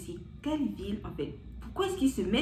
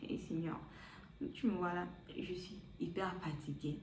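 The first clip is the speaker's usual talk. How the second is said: weary plea; 9 dB quieter than usual. Retold or imitated. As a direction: sigh it out to God, exhausted. Weary inner plea to God.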